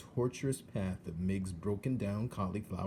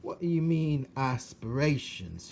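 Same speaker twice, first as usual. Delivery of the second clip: higher, louder rough shout; 6 semitones higher, 6 dB louder than usual. Acted. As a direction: shout it back like a half-deaf servant girl. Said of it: "shouted Mig".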